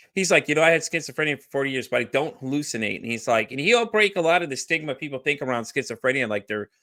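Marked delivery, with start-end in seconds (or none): none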